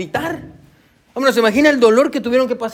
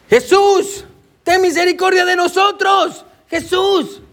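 high, drawn-out plea shouted to a passer-by; crying out; 8 semitones higher, slower than usual. Acted. Lepers begging Jesus for mercy as he passes, high pleading shout. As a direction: call out desperately, pitched well above normal. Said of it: "ellos empiezan a gritar".

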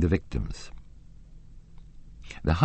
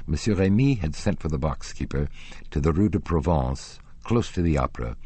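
ordinary delivery

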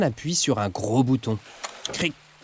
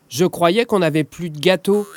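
surprised; 4 semitones higher than usual. Acted. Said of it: "s'étonne Oscar".

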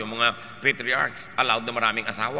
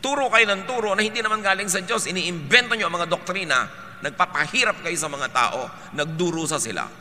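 louder, raised preaching rebuke; Jesus rebuking hypocrites; 6 semitones higher, 3 dB louder than usual. Retold or imitated. Jesus scolding the religious leaders, loud and angry. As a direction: thunder at the hypocrites from the pulpit. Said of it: "Sabi niya".

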